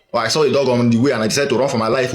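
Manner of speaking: fast retelling in one breath; hurried version. Shown as a demonstration. Showing viewers how speech changes, rattled off quickly. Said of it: "you see how, uh, this speech went".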